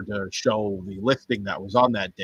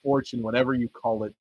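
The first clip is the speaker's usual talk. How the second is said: ordinary talk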